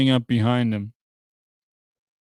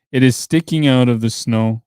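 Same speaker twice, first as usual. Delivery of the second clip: sudden outburst; 8 dB louder than usual. A narrator's reading. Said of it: "he said suddenly".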